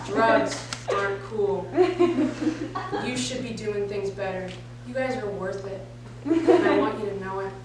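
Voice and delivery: lightly voiced anti-drug lecturer; low, measured, mock-earnest talk; D.A.R.E. officer. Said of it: "in true Dare Truth fashion style".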